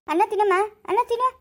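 high, loud, scolding caretaker voice; stern nanny coaxing. Acted. Orphanage caretaker ordering a crying child to eat, high and loud.

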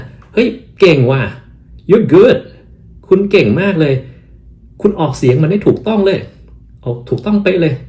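high-pitched, exaggerated admiration; effusive praise. Praising a foreigner's ni hao pronunciation, high and impressed. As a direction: gush as if hugely impressed.

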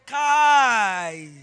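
a loud, sharp cry of outrage; angry exclamation. Retold or imitated. Woman shouting at her uncle in outrage. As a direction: bark it out in fury.

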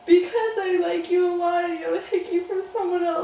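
tearful, hurt confession; crying. Real, not acted. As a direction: explain the hurt through tears. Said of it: "why you're crying".

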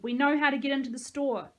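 narrated insistence; insistent. A narrator's reading. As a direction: press the point urgently. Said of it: "Nico insisted".

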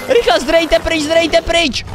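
high, urgent plea to flee; urgent warning. Real, not acted. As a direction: urge them to get away at once. Urging characters to flee.

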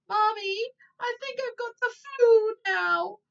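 high, loud call to Mommy. A narrator's reading. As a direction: call across the room to mother. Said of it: "called Melinda".

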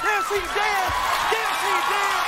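mock TV preacher, building up; televangelist. Guard preaches to intruder like a religious channel host. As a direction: preach at the stranger like a TV evangelist. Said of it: "religious channel".

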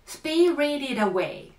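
"スピリティッドアウェイ" quick and smooth in one run; fast. Shown as a demonstration. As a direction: rattle off "スピリティッドアウェイ" at natural speed. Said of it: "これを早く言うと".

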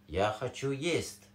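Russian phrase "یا خچو یست" spoken slowly; slow teaching demo. Shown as a demonstration. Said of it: "فعل خوردنه".

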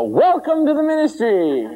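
wry comeback. Retold or imitated. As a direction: deliver it as a dry shrug of a retort. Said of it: "And I go".

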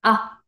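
brief open "a" as ah; short A sound. Shown as a demonstration. Teacher naming the short sound, brief "a". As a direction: cut "a" short, like ah. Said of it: "Sonido corto".

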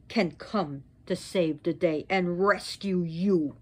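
mildly wrathful, declamatory prophecy; stern curse. Acted. Goddess foretells Indra's humiliation in battle, stern curse. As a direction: pronounce the doom with emphatic swoops.

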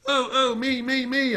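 high, eager me-me-me; mock eager hand-raiser; eager volunteer. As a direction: squeak like a kid begging to be picked.

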